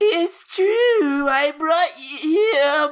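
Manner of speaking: extra-whiny put-on voice, drawn out. Voicing a character's line, made even whinier: exaggerated whiny character voice. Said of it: "I'll make him sound even more whiny then".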